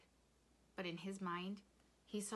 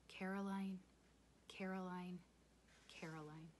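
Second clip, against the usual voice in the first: hushed repetition, fading softer; whispered; 6 dB quieter than usual. A narrator's reading. Father repeating his lost wife's name, whispering. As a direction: let each name die away. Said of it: "his father whispered".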